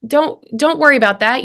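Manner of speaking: acting out waving someone's pain away; dismissive reassurance. Listener trying to diminish someone's pain, dismissive. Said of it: "we'll try to diminish it".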